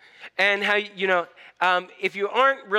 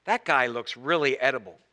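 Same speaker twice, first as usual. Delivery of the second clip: low, softened musing; quietly sizing up something unfamiliar; mildly cautious lion; 6 semitones lower, 5 dB quieter than usual. Acted. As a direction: voice a wary lion, lightly acted. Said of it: "says with caution".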